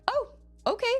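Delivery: lightly imitated, high-pitched politeness; mock polite approval. Dad politely covering a snub from girl's father, mock approval. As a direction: start high with put-on approval, then settle.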